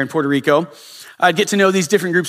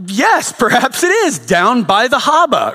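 slow, high-pitched bad Boston accent; mock Boston accent; 6 semitones higher, slower than usual. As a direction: play along in a drawn-out fake Boston accent. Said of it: "I don't know if that accent's good".

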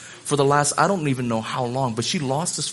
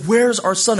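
louder, higher, pressing question; urgent retold demand; 7 semitones higher, 5 dB louder than usual. Wife coming back about the missing son, urgent and louder. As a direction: press the question with mounting worry.

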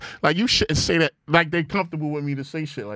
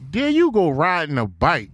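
smooth cool line. Retold or imitated. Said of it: "the line was so smooth and cool".

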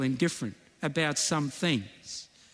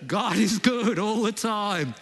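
African accent, high and loud; 5 semitones higher, 4 dB louder than usual. Shown as a demonstration. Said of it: "Some of your African accents are so good".

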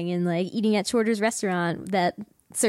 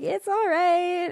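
slow, much higher half-hearted praise; lukewarm gang; 10 semitones higher, slower than usual. Retold or imitated. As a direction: drag it out, unconvinced and higher. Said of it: "And they're like".

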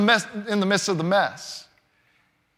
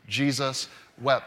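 slow recitation; 8 semitones lower, 5 dB quieter than usual. Shown as a demonstration. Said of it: "can you say it with me?".

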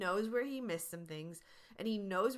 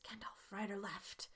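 hushed, voiceless whisper; 8 dB quieter than usual. Retold or imitated. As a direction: whisper a question to a trusted guide. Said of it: "and he whispers".

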